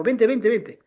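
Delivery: words run together in a hurry; quick urging. Retold or imitated. Young woman telling him to come along fast, imitated quick urging. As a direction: retell a hasty, insistent summons. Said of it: "Así rápido, me dijo".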